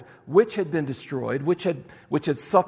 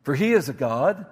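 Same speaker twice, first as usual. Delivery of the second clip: a light jeering read of the prophet's taunt, first words pitched up; mocking taunt. Elijah taunting the prophets of Baal, mocking. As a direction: lean into the crass jab at Baal. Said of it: "Elijah mocked them, saying".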